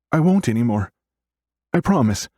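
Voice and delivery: put-on high, small child's voice promising; little sister pleading to be believed; chastened little girl. A narrator's reading.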